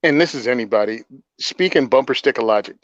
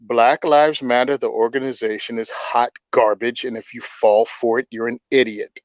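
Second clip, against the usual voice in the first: slow, deliberate delivery; really slow; 3 semitones lower than usual. Real, not acted. Host explaining to anyone who might disagree, really slow. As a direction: spell it out slowly, phrase by phrase. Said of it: "I'll say it really slow".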